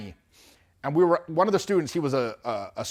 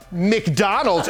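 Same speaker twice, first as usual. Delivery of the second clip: louder, laughing through the word; laughing question; 4 semitones higher, 5 dB louder than usual. Retold or imitated. Surgeon laughing at her.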